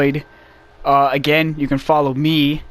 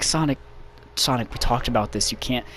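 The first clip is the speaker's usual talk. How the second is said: Tails; 4 semitones lower, 8 dB quieter than usual. Acted. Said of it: "Tails is like".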